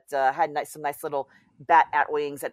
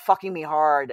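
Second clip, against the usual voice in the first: ordinary talk, nothing marked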